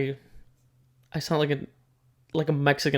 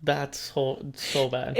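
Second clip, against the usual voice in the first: whisper; 5 dB quieter, much slower than usual. Real, not acted. Sympathy, whispered.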